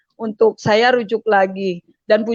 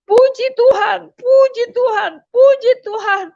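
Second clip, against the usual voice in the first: retold cry of praise, high-pitched and a little louder; imitated joyful-praise shout; 9 semitones higher, 3 dB louder than usual. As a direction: mimic his high exclamation to God. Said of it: "Langsung dia teriak".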